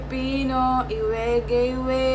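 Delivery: pinched nose. Acted. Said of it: "Ba't mo inipit ilong mo?".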